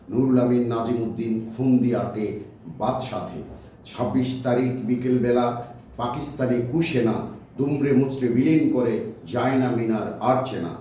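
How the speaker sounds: rhythmic, declaimed verse; rhyme recitation. Acted. Poet recites rhyme on the demolished Shaheed Minar, rhythmic declamation. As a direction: recite in measured phrases, settling on the refrain.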